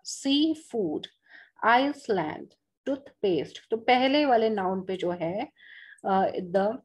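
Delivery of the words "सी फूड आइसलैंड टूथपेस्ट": सी फूड, आइसलैंड, टूथपेस्ट with the weight on सी, आइस, टूथ; first-word stress. Shown as a demonstration. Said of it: "first word पे आएगा".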